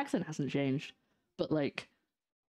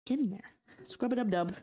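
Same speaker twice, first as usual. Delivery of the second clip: cutesy bath-time voice; 7 semitones higher than usual. Pretend. Washing sprouts like babies in tub.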